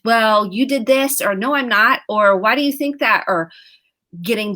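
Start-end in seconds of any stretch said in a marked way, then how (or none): 0.0-1.2 louder blaming retort; defensive comeback. Retold or imitated. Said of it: "going back at it with". 1.3-2.0 louder quick denial; defensive denial. Retold or imitated. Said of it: "going back at it with". 2.4-3.2 higher, louder challenging question; defensive challenge. Retold or imitated. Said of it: "going back at it with".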